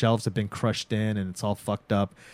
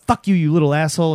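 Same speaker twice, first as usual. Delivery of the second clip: a loud, high hammed-up teen yell; angry yell; 6 semitones higher, 7 dB louder, faster than usual. Teen sister yelling at her brother before storming upstairs, loud mock fury. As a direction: snap it at your little brother, playing the sister.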